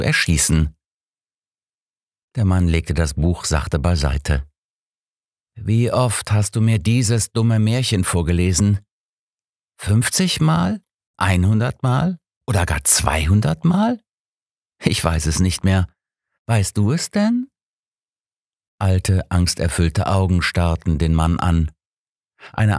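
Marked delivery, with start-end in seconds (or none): 5.5-17.5 a lightly voiced cold captor, mocking; a hint of a sneering kidnapper; taunting captor. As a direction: needle a helpless old man with mock questions, peaks much higher. Kidnapper taunts his captive father.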